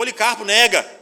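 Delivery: loud, high-pitched pleading cry.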